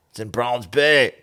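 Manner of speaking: bad South African accent on Browns Bay; butchered South African accent. Shown as a demonstration. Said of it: "I can't do a South African accent saying Browns Bay".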